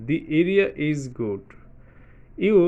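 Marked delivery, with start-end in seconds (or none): 0.1-1.4 "the" said as "dee" before area, slow. Shown as a demonstration. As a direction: stretch out "the" as "dee", very slowly. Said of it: "এটাকে বলবো দি".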